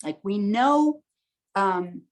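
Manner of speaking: calm, measured teaching voice; calm workshop talk. Acted. Teacher opens the full moon session, calm and measured. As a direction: guide the group gently through the idea.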